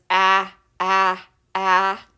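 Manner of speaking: repeated "ah" with the mouth open; short a sound. Shown as a demonstration. Teacher to kids, demoing short A. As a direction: sound out "ah" three times. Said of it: "the short A sound says".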